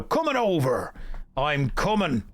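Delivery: mock Green Beret unit accent; Green Beret's accent. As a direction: imitate the game soldier's accent acknowledging an order. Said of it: "in that exact accent".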